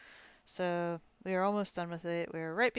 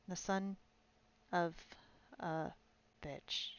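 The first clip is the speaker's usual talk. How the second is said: muttered curse; 6 dB quieter, slower than usual. Acted. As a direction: spit the curse out under the breath. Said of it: "he muttered".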